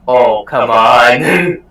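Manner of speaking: loud drawn-out "come on"; exasperated. Acted. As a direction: groan it out, fed up and slow. Exasperated in-character outburst.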